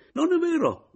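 put-on high, loud girlish outcry; shouted protest. A narrator's reading. Adriana crying out at Caporale, high shouted protest. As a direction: cry out against the lie. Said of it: "gridò Adriana".

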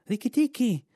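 terrified bird calling Rikki Tikki; panicked shout. Acted. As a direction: scream for help, desperate and urgent.

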